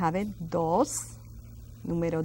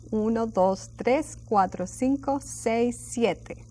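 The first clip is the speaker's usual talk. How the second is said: quick recitation. Shown as a demonstration. Teacher drilling students to recite without looking, quick run-through. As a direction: count straight through briskly, no gaps. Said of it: "very quickly without looking".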